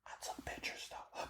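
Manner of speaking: whispered, hushed aside; secret whisper. Real, not acted. Admitting to listeners he snuck photos, whispered. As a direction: let the listeners in on a naughty secret, breathless and hushed. Confessing breaking the photo rule.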